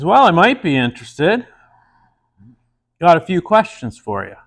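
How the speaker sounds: a hint of a coy housewife; flirty woman. Woman voiced in a joke.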